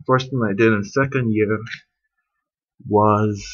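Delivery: trembling a little, chilled; shaky voice. Real, not acted. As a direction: voice shaking from the cold. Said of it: "sorry, my voice is shaking".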